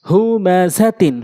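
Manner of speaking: syllables stretched for learners; slow demo. Shown as a demonstration. Teacher speaking so learners can follow, slowly. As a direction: take the word slowly, part by part. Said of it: "slow বলছি এই জন্য".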